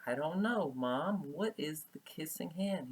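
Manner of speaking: high whispered question; curious whisper. Acted. Teacher voices Chester asking mom, whispered and curious. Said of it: "with a curious look like".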